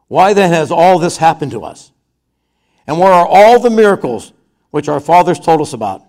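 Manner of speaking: loud, aggrieved pleading to the Lord; exasperated complaint. Retold or imitated. Preacher voices Gideon complaining to the angel, aggrieved and loud. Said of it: "I'll tell you how I think he said it".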